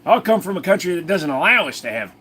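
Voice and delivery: high-pitched Aussie bloke voice; exaggerated Australian accent; put-on Australian accent. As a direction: keep up the high Australian character voice. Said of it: "I just switched way down".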